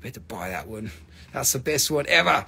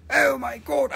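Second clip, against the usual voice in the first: high-pitched cry of amazement; voiced, high-pitched astonishment; high exclamation; 8 semitones higher than usual. Same exclamation repeated aloud.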